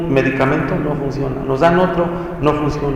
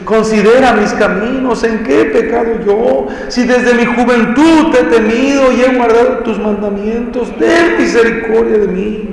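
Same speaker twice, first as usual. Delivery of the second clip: much higher, louder wailing plea; anguished crying prayer; 8 semitones higher, 5 dB louder than usual. Retold or imitated. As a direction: cry out to God as if weeping. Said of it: "clamó con tan gran llanto". (clamor lloroso, mucho más agudo y fuerte)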